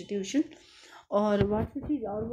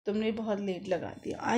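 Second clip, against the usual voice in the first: a touch of mock annoyance; mild irritated scolding; faster than usual. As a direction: imitate a peeved lender scolding, without real anger. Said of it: "डांटते हुए, गुस्से से, झल्लाते हुए भी कह सकते हो".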